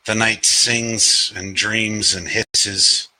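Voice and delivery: measured recital, lingering on the verbs; deliberate open-mic poet cadence; poetry reading. Acted. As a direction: recite slowly, letting each line fall. Reads own poem aloud.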